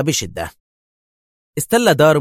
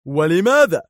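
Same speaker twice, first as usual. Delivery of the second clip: irate challenge with raised pitch; higher, forceful angry question; 5 semitones higher, 4 dB louder than usual. A narrator's reading. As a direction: demand an answer angrily. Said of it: "سأله دار في غضب".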